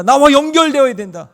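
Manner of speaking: 나와 연결되어야 된다 cried out high and loud, 나와 hit hardest; crying out. Shown as a demonstration. Preacher repeats God's call to the congregation, loud high cry. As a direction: proclaim it like an urgent plea from God. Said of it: "그것을 계속해서 외치고 있는 거예요".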